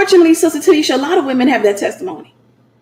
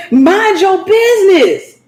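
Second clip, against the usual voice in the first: sassy mock retort; 6 semitones higher, slower than usual. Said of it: "they be like".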